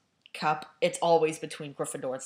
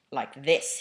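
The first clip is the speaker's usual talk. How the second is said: irritable; 3 semitones lower, 4 dB louder than usual. Acted. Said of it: "he said irritably".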